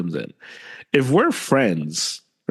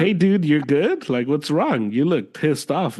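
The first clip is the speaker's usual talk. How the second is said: high, drawn-out friendly asking; concerned check-in; 5 semitones higher than usual. Acted. Asking a pissed-looking friend what's wrong, acted concern. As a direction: check on a buddy with lifted pitch.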